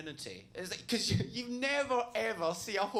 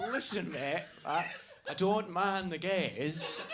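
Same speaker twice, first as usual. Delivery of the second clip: slow, drawn out, puffed-up chest; slow macho bloke; 3 dB louder, slower than usual. Retold or imitated. Comic mimics a macho punter, slow and puffed up. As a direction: play the tough guy talking down. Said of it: "It's like".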